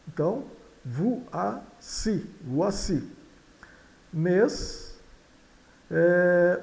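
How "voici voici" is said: voici split as "vu-a-si", then joined, landing on the I; stressed final I. Shown as a demonstration. Teacher breaking it down for learners, voici syllable by syllable. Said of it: "soa U A".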